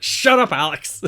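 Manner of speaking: high, loud mock snap; shouting. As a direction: cut him off with a yelled rebuke. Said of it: "Jarrett then starts shouting at Alex Shelley".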